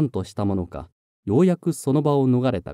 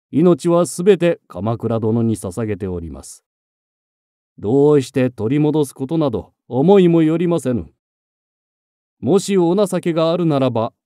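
defiant captive. Acted. Defiant captive refuses mercy.

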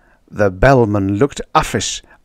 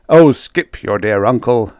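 louder exasperated exclamation; bellman exclaims; 6 dB louder than usual. Acted. Bellman angrily cutting off the baker, loud exclamation. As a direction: brush it aside impatiently. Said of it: "the bellman exclaimed".

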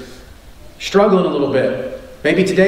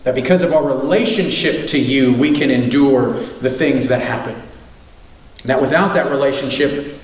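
lower, hushed prayer voice; 3 semitones lower than usual. Acted. Pastor praying over the church for the unsaved, lowered prayer voice. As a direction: pray over the congregation, earnest and low.

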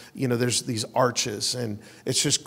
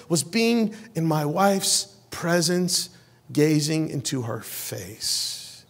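tender; 2 semitones higher, much slower than usual. Real, not acted. Tender memory of wife's face.

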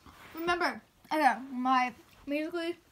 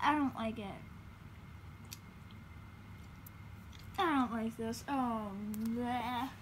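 disgusted by taste; 5 semitones lower, 10 dB quieter, slower than usual. Real, not acted.

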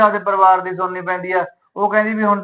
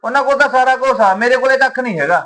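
heated complaint; 5 semitones higher than usual. Acted. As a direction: throw it at her, frustrated. Son argues with his mother. (ਮਾਂ ਅੱਗੇ ਗੁੱਸੇ ਨਾਲ ਉੱਚੀ ਸ਼ਿਕਾਇਤ)

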